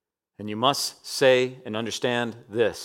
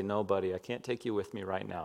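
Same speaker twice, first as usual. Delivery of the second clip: gentle refusal; 6 semitones lower, 12 dB quieter than usual. Retold or imitated. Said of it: "I have to say".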